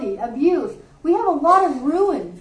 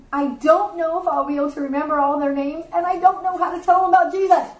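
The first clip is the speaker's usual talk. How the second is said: frustrated child, retold; 2 semitones higher, faster than usual. Mother retells her nine-year-old daughter's worries, rushed mild frustration. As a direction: imitate an overwhelmed child, words hurrying out. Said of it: "she was really frustrated".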